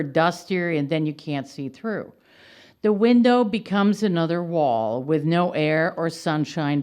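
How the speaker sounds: emphatic line openings that fall away at the ends; poetry reading. Real, not acted. Poet reading her windows poem to an audience, poetry reading. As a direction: read it as a poem, pointed questions near the close.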